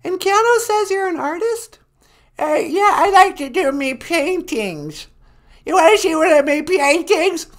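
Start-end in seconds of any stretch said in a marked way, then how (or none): 2.4-7.5 put-on hard-of-hearing old woman; old lady voice. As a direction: croak like a deaf granny. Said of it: "She's really old and nasty".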